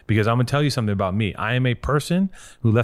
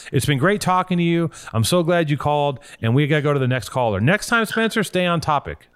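higher, bright sign-off voice, half-joking; mock radio host; 5 semitones higher than usual. Host jokingly dismisses caller Spencer with a mock radio sign-off. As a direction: play the cheesy host wrapping the call.

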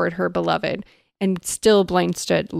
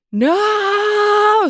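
high, loud, drawn-out mock scream; hammed-up long high shriek; 6 dB louder than usual. A narrator's reading. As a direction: scream it in theatrical terror. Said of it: "screamed Press".

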